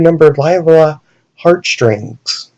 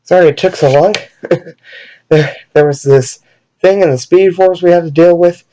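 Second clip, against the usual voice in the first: panting; 3 semitones higher than usual. Acted. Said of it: "is panting, saying".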